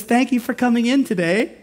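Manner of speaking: bright, high friendly shop clerk; cheery store clerk. Retold or imitated. Pastor imitating a smiling clerk thanking shoppers, high and chirpy. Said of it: "She goes".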